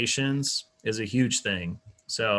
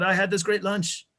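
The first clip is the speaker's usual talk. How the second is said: loud speech; 9 semitones higher, 5 dB louder than usual. Shown as a demonstration. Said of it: "some people just talk like that".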